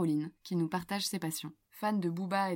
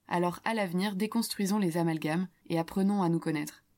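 upbeat louder host read; radio host read; 4 dB louder than usual. Acted. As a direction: address listeners like a radio host. Host closing statement. (lecture d'animatrice radio)

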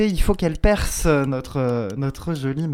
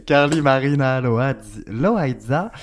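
Spanish-accented Carly Marina Loaiza; host holds the Spanish accent for the full name; slower than usual. Shown as a demonstration. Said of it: "je fais mon accent tout, tout le long".

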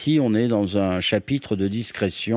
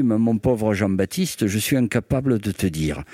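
put-on Basque accent; 3 semitones lower than usual. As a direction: mimic a colleague's Basque accent, not quite right. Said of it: "mon accent est mauvais".

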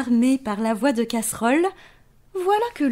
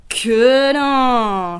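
emphatic; 7 dB louder than usual. A narrator's reading. Emphatic reply to child.

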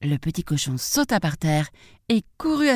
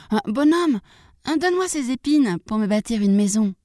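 high piglet voice; little pig; 6 semitones higher than usual. Acted. Second pig asks a man for thorns, high piglet voice. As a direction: pipe up high as a piglet asking a favour.

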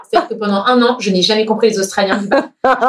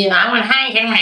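put-on a light Cork Irish accent on "I want Heineken"; mimicked Cork accent. Customer orders at the bar, mild Cork Irish accent. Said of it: "avec l'accent de Cork".

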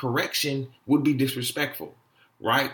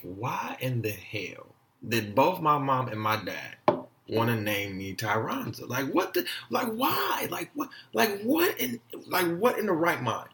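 acted incredulity. Acting out childhood disbelief at name.

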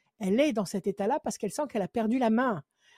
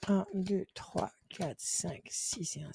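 counting under breath; 2 semitones lower, 9 dB quieter, slower than usual. Real, not acted. Card reader counting the caller's cards, murmured to herself. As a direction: count the cards off quietly to yourself.

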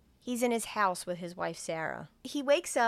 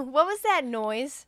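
put-on child voice; 5 semitones higher, 5 dB louder, slower than usual. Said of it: "And he's like".

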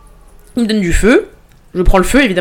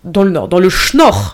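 Nord written as "Schnorr", a mock northern Ch'ti rhyme; Ch'ti accent; slower than usual. Shown as a demonstration. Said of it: "je crois qu'on dit comme ça".

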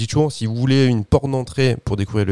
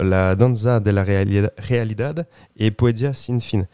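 Spanish accent; slower than usual. Shown as a demonstration. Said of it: "bon, mon accent".

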